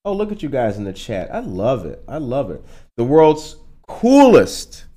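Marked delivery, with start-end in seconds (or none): 3.0-4.9 drawn-out announcer. Shown as a demonstration. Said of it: "repeated slogan".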